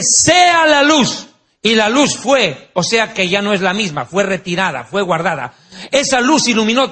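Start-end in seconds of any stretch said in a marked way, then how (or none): 0.0-1.3 booming, slow divine command; God speaking the world into being. Acted. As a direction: proclaim it slowly like God. God's command in creation.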